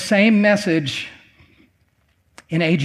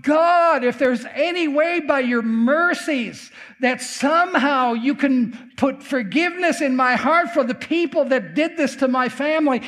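high-pitched impassioned plea, imitating a wail; retold wailing prayer; 5 semitones higher than usual. Man prays to forgive his family's killers, imitated wailing. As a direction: cry out to God as if wailing, without sobs. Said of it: "he just started wailing".

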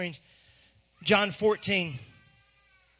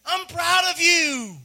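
proud fatherly declaration; 7 semitones higher, slower than usual. Acted. God proudly calls out to us.

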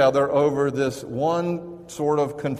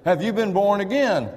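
raised, pressing street-preacher question; a stranger with a tract confronting two diners, pressing and raised; pushy stranger challenging; 7 semitones higher, 4 dB louder than usual. Retold or imitated. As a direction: push "Have you been born again?" at them, higher and louder. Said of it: "looked us in the eye and said".

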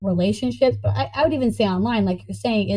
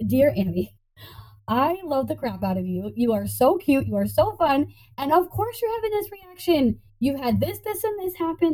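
love note to self; 5 semitones higher than usual. Pretend. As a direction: read a fond love note to yourself. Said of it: "I write love notes to myself".

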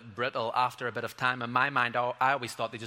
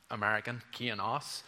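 badly faked American accent; clumsy go at sounding American. Shown as a demonstration. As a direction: attempt an American accent, not very well. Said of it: "I can't do an American accent".

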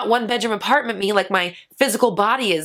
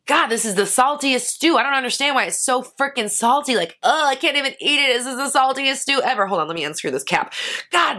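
mock grumbling cook; whiny complaint; 3 semitones higher than usual. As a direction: moan like the cook who oversalted it. Acted complaining about salty stew.

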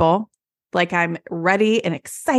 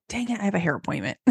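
grumbling; 7 dB quieter, faster than usual. Retold or imitated. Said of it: "they're like".

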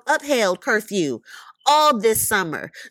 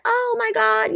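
high-pitched imitation of mom; mom's shocked reaction; 9 semitones higher than usual. Retelling mom's reaction to the news, imitated high shock. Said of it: "my mom is like".

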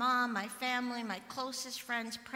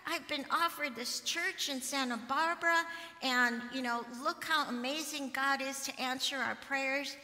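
imagined excited news; 2 semitones higher than usual. Pretend. Pastor imagines telling her mom the happy news, excited.

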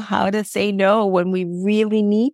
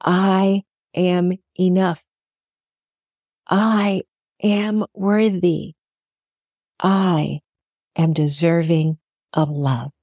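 slow affirmation; slower than usual. Shown as a demonstration. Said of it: "How about saying this to yourself".

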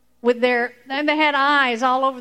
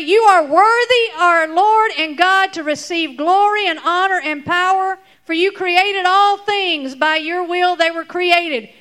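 raised and loud, like an elder proclaiming worship; excited praise; 3 semitones higher, 3 dB louder than usual. Acted. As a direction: proclaim it with awe and joy. Elders' praise acted out for kids.

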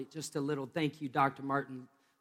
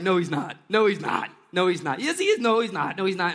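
loud, rapid back-and-forth protest; excited denial; 5 dB louder than usual. Retold or imitated. The household arguing with Rhoda at the door, in loud excited denial. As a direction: argue it down insistently.

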